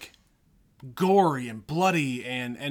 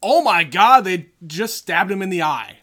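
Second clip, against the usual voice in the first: much louder and higher, alarmed; mock shock; 3 semitones higher, 9 dB louder than usual. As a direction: gasp it out like a horrified viewer. Mimicking the shocked viewer.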